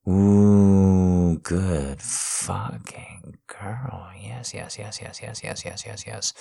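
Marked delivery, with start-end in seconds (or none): 1.4-6.3 whisper. Acted. Whispering praise to his wife as she nears climax. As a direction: breathe it out unvoiced.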